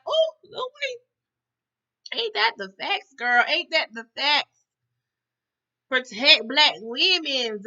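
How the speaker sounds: high, emphatic cheering her on; hyped-up agreement. Acted. Viewer backing Louie on black women, hyped-up agreement. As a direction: cheer her on high and loud, drawing words out.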